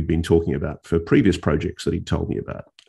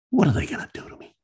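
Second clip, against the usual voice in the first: repeated much higher and faster; 11 semitones higher, 4 dB quieter, much faster than usual. Retold or imitated. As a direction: rush the repeat up high.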